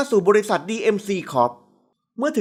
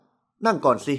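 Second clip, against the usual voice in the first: lower, level and composed; calm invitation; 7 semitones lower, much slower than usual. A narrator's reading. CEO calmly telling her to sit, lower and even. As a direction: offer the seat without emotion. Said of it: "เขาเชิญเสียงนิ่ง".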